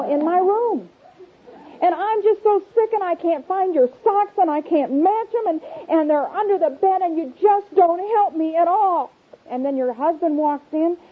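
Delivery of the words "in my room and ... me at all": higher, exasperated complaining; frazzled mom rant. Pretend. Mother complaining to child about socks, higher and fed up.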